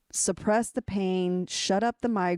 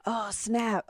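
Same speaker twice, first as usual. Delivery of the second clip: oh snap; 3 semitones higher than usual. Real, not acted. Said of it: "I love that you literally snapped".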